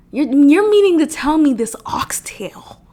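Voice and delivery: hushed, breathy disbelief; incredulous whisper. Real, not acted. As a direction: whisper it like you can't believe it. Disbelief at diet news.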